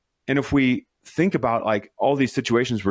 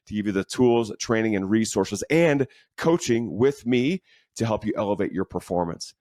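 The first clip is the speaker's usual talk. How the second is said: ad read. Acted. Promo for coaching membership.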